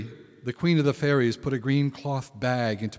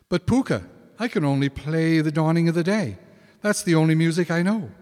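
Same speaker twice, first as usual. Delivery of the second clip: anxious protest; 5 semitones higher, 4 dB louder, faster than usual. Acted. Colin protests to the Púca.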